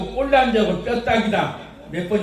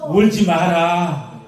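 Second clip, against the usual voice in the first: a slow, tender "don't cry" as Jesus; lightly voiced Jesus consoling the widow; gentle Jesus; 4 semitones lower, much slower than usual. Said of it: "예수님 가부에 가까이 가서".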